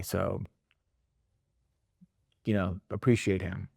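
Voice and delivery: retold confession with halting pauses and a touch of heaviness; heavy, serious. Bereaved customer explains himself to the manager, heavy and serious. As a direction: imitate a grieving man, understated, pausing between phrases. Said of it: "you can hear, like, the heaviness in his voice".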